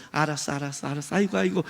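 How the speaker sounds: softly brushing off an angry partner; smiling placation. Retold or imitated. Spouse placates angry partner in a quarrel, smiling placation. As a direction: humour them with a mild, smiling tone. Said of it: "웃으면서".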